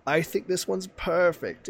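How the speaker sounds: high, slow and pleased; the old turtle finally finds his horse; relieved turtle. Retold or imitated. Imitating the turtle, high and slow with relief. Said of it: "the mannerism".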